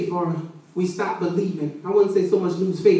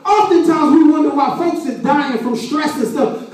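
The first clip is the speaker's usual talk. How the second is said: raised, emphatic sermon voice; preaching; 5 semitones higher, 3 dB louder than usual. Real, not acted. Preacher explains Jesus weeping to the congregation, preaching.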